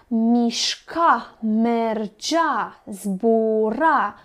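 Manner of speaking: "mișca", "mergea", "zbura" stressed on the last syllable, miș-CA, mer-GEA, zbu-RA; iamb stress demo. Shown as a demonstration. Teacher shows pupils an iamb, stressing "mișca", "mergea", "zbura" on the second syllable. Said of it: "cu accent pe cea de-a doua silabă".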